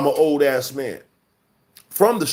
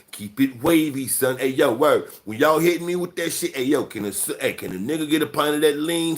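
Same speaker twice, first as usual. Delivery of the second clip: mock slang voice. Shown as a demonstration. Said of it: "I'm talking like that all the fucking time".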